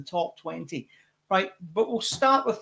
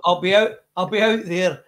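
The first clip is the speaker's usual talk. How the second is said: loud; 9 dB louder than usual. Real, not acted. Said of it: "my loud Scottish voice".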